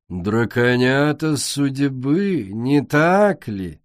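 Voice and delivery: slow, drawn-out mockery; mocking. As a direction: cut her off with scorn. Queen mocking interruption.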